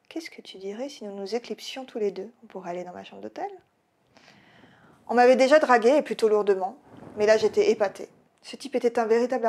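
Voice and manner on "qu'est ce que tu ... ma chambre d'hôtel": whispered come-on. Acted. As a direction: lean in and murmur the offer close to her ear. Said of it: "me susurra". (murmure séducteur à l'oreille, très doux)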